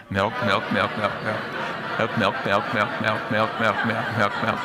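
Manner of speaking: rapid repeated milk, loud; fast word repetition. Shown as a demonstration. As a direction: rattle off milk over and over.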